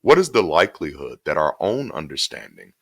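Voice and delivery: measured book reading voice; reading aloud. Acted. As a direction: read the essay steadily and deliberately. Reads his book excerpt aloud.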